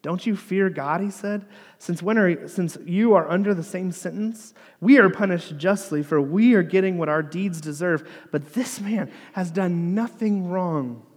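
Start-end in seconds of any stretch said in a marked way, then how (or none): 0.0-1.0 mildly acted sharp reproach; rebuke. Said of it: "the other criminal rebuked him". 1.8-11.0 emphatic retold reproach, raised voice; rebuke. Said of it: "the other criminal rebuked him".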